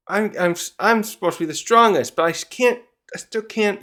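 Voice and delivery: acting out a big guy stuck. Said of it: "he's like a big looking guy too".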